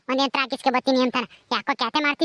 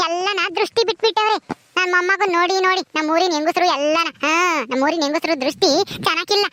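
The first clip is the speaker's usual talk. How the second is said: doting granny; 2 semitones higher than usual. Acted. Grandmother cooing to grandson.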